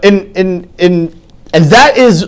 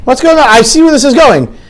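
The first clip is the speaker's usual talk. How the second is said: higher, incredulous "what's going on"; mock disbelief; 7 semitones higher than usual. Classmate realizing lessons never end, mock incredulous. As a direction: act out catching on to a scam. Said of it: "I was like".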